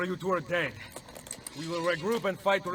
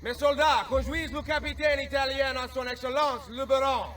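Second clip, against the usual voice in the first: commanding French officer; 10 semitones higher than usual. Acted. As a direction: bark orders as a disguised French captain. Posing as French officer commanding guards.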